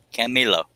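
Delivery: Camilo repeated with falling tune; pronounced Camilo. Shown as a demonstration. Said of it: "his name is pronounced Camilo".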